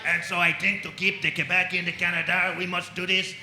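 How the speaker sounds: put-on lightly caricatured French-Canadian accent; loud French-Canadian politician mid-speech; mock French-Canadian prime minister. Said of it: "he'd be in like".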